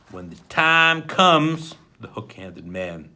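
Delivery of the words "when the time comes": smoothly. A narrator's reading. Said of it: "said smoothingly".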